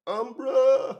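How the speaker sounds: loud high call across the room. Real, not acted. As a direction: shout his name to get his attention. Calling out to lost cohost.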